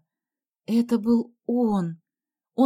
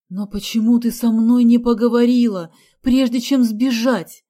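vexed reproach; 2 semitones higher, 8 dB louder than usual. A narrator's reading. Nanny reproaching the girl for running off, vexed. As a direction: reproach her with vexation. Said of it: "с досадой произнесла Вава".

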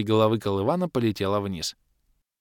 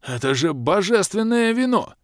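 wheezed; 11 semitones higher, 4 dB louder than usual. A narrator's reading. Zloba wheezing in awe over the divine wine. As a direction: let the voice climb on вино. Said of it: "просипел черноволосый злоба".

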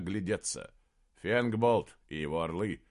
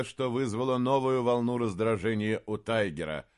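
ordinary delivery, nothing marked

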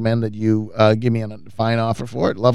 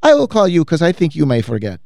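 higher, carefully worded imitation; cleaning lady impression; 5 semitones higher than usual. Cleaning lady reminding her client, high gentle impression. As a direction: quote her nicely in a higher voice. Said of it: "And she says".

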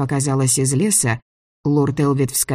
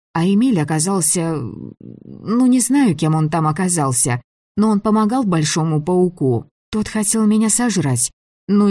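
higher-pitched heroine, explaining herself nervously; flustered young heroine; 4 semitones higher than usual. Acted. Girl explaining herself to the angry director, flustered and higher. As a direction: justify yourself in a raised pitch.

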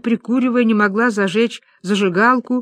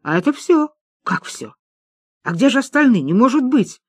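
rising, dismayed questions; can't believe the money is gone; mock outrage at the tiny stack; shocked disbelief; 5 semitones higher than usual. Women shocked by few chips.

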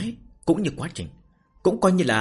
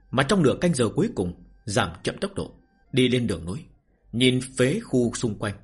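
story narration. A narrator's reading. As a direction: narrate the novel with measured phrases and pauses. Reads a novel aloud to listeners. (giọng kể truyện)

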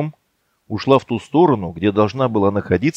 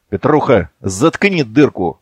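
slow, menacing growl; slower than usual. Acted. Yegor silencing Petrukha, growled slowly. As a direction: growl the order. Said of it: "прорычал Егор".

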